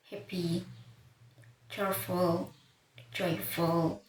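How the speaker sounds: "happy, cheerful, joyful", each stressed on its first syllable. Shown as a demonstration. Teacher listing examples of the common pattern, first syllable stressed. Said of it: "Usually stress falls on the first, first syllables".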